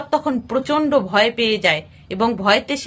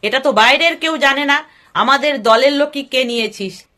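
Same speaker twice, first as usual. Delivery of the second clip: harsh shouting. Acted. Dacoit chief shouting at his men over the stolen gold box, harsh yell. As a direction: bark it out as the furious dacoit leader. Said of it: "চিৎকার করে কর্কশ গলায় চেঁচিয়ে".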